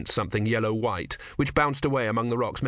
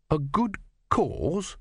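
slow, high, appalled question; drawn-out disbelief, pitched up; incredulous echo; 7 semitones higher, much slower than usual. Acted. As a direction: throw it back with a rise on CAUSE.

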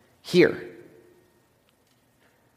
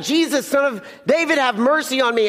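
retold shout; 5 semitones higher than usual. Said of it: "this man keeps shouting".

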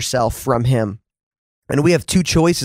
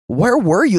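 raised pleading where were you; pleading cry; 5 semitones higher than usual. Acted. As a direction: cry it out to God in pain. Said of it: "this question surfaces in many of our hearts".

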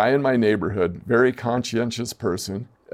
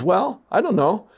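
higher-pitched, tentative estimate with pauses; retold hesitant guess; 4 semitones higher than usual. Neighbor guessing a coach's extra pay, hesitant. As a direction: imitate someone cautiously venturing a number.

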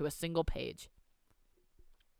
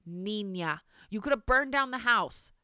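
louder cry rising high on the house; cried out; 4 semitones higher, 3 dB louder than usual. Acted. Grandmother scolding the girl, a touch louder and higher. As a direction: scold her in fright. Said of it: "cried her grandmother".

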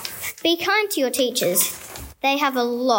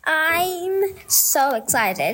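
slow, drawn-out gushing; awkward joy; 2 semitones higher, much slower than usual. Acted. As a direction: stretch it out, overjoyed. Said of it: "Not again, Brittany!".

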